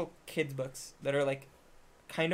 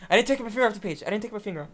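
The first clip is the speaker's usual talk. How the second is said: mock protest; 2 semitones higher, 4 dB louder, much faster than usual. Acting out excuse for cheating in gamebook.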